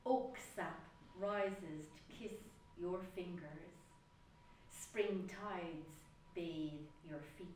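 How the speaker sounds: slow, measured poetry reading; poem recital. Acted. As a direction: recite it slowly, pausing after each image. Recites own poem Bridget.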